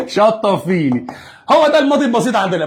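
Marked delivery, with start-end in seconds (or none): 0.1-1.1 put-on child voice. Child calling mom.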